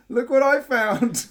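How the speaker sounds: high, loud, drawn-out mock presentation; cheeky showing-off. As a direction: show it off with theatrical cheek. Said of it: "I did, like, a cheeky little bow".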